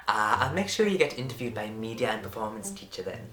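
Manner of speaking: halting attempt at an Irish accent; wobbly Irish lady impression. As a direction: feel your way through an Irish lilt. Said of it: "in an Irish accent".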